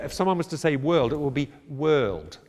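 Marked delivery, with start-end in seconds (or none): 1.7-2.4 put-on Kiwi accent. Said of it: "on them you will hear".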